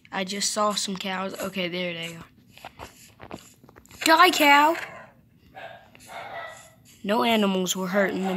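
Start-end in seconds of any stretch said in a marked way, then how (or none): 4.1-4.8 high, loud mock battle cry; hammed-up attack shout. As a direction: yell it at the cow like a cartoon villain. Attacking cow in game.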